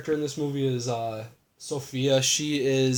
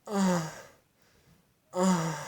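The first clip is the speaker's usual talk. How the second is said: higher-pitched mock moan, spaced out; imitated moan; 6 semitones higher, 4 dB quieter than usual. Podcaster mimicking the mom heard through the walls, mock moaning. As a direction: mimic short moans, not in earnest. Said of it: "you can hear her moaning".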